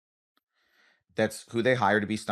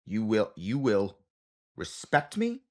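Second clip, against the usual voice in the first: angry parent; 3 semitones lower, 4 dB quieter than usual. Retold or imitated. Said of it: "angry mom attitude".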